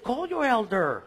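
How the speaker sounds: hammed-up retort with a long falling slide; exaggerated mock voice. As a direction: drag it out in mock challenge. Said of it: "No, I don't talk like that".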